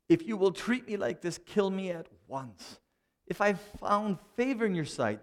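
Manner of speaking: pressed harder, slowing on kill me at once; exasperated plea. Retold or imitated. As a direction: insist you are done. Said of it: "He says this".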